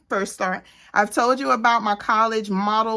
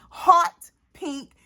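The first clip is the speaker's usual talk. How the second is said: sassy exclaim; 7 semitones higher than usual. Shown as a demonstration. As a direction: belt out "Hot" like a diva. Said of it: "and I do mean hot".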